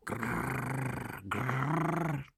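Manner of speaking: rolled pigeon coo, falling; two long trilled coos like a pigeon. A narrator's reading. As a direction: imitate pigeons with a rolling grrr. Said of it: "zagruchały tymczasem gołębie".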